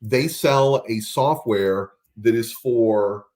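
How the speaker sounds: slow, deliberate delivery with pauses; speaking slowly. Real, not acted. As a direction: say it slowly so they can note it down. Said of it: "I'll speak slowly".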